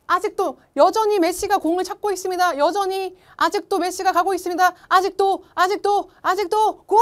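rising excited football commentary; football commentator. Retold or imitated. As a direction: call the goal like a live commentator. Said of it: "이런 느낌으로 중계를 하신 거예요". (흥분한 축구 중계 캐스터)

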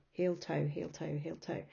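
heel, toe in an even two-beat step; walking rhythm. Shown as a demonstration. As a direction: chant heel, toe like footsteps. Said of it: "makes a kind of da-dum".

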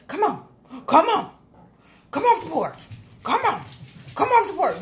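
high, loud sing-song dog call; mock her like she's calling a dog off the porch. Mocking Nicole's tone as a loud, high dog call. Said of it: "Like you're calling the dog".

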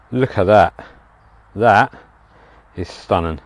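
talking through a mouthful; words round a bite of food; mouth full. Real, not acted. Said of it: "Sorry, guys, I've got food in my mouth".

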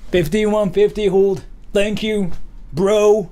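American bro voice. Acted. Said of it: "that's what I think Americans sound like".

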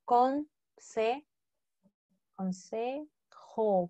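consejo drawn out slowly, syllable by syllable; slow spelled-out word. Shown as a demonstration. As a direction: stretch out consejo for the class. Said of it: "¿Qué era advice?".

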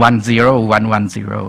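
"one zero one one zero" slowly, each zero with a buzzing Z; voiced Z drill. Shown as a demonstration. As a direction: make every Z in zero vibrate. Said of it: "เสียงมันต้องสั่นลงคอนะ".

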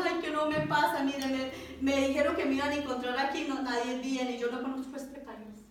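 mildly whiny retold plea; tearful complaint. Lost woman explains herself to a kind old man, mildly tearful. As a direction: plead as if through tears.

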